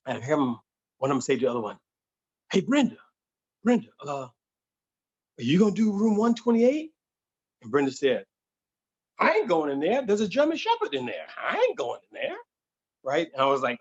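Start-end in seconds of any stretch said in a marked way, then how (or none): 2.5-6.9 higher calling maid voice; lightly voiced maid. Maid calling to Brenda in the hallway, a light higher voice. 9.2-12.4 high, rising panicky refusal; scared maid. Retold or imitated. Brenda refusing to go in the room, high and scared.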